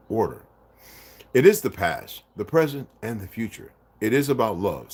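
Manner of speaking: measured, emphatic book narration; reading aloud. Acted. Reading a book passage to viewers, measured narration. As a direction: read it out clearly with deliberate phrasing.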